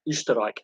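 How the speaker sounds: ÖSTERREICH with rounded first vowel, ending "rike"; German pronunciation. Shown as a demonstration. Giving the German name for Austria, German pronunciation. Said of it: "is how they say Austria".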